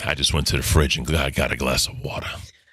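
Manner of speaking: low creepy voice. A speaker shows how saying anything in their lower voice sounds creepy, low creepy voice. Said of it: "like in my lower voice".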